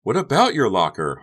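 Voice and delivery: high, loud innocent question. Acted. Honey feigns innocence to Becca, high and loud. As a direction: play it wide-eyed innocent. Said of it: "innocent as innocent could be".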